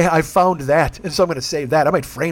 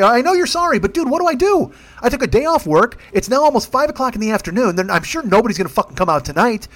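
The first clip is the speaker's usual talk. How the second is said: exasperated rant; 6 semitones higher than usual. Retold or imitated. Retelling his rant at Owen.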